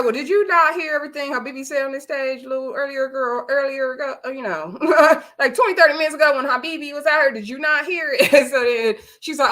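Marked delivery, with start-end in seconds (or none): 0.0-8.3 higher-pitched retold scolding; incredulous challenge. Host confronts a cast member about what she missed, incredulous. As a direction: act out a disbelieving host challenging her.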